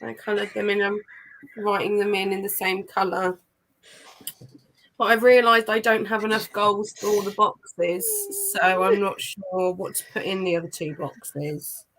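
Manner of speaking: flat, emotionless delivery with a sore throat; deadpan, no emotion whatsoever. Real, not acted. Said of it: "really deadpan voice with the accent".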